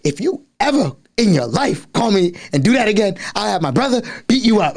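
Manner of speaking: high-pitched mock threat; threatening girl. Girl rejecting a boy who sang on the phone, threatening. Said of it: "And she was like".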